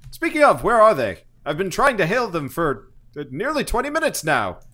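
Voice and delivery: loud, high, barking officer; angry commander. Acted. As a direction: bark it like an irate field marshal. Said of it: "he's like".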